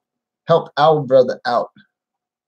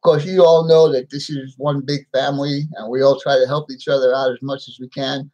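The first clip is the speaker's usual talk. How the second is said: speaking without dentures in; toothless. Real, not acted. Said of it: "I'm sorry I don't have my dentures in".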